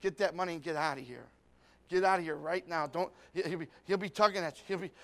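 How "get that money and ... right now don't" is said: a sly tempter slowing down to lure him in; old man temptation. Acted. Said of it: "He's gonna say".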